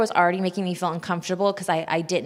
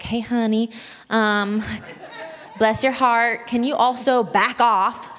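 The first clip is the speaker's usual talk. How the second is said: a little stern; 4 semitones higher, slower than usual. Retold or imitated. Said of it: "get a little more stern".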